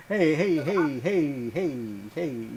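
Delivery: laughing mock protest, fading. Real, not acted. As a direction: laugh through the hey hey.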